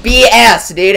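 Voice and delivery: very high and loud, screaming no; raging outburst. Real, not acted. Gamer raging at a camper who spawn killed him, screaming. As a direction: explode at being spawn killed.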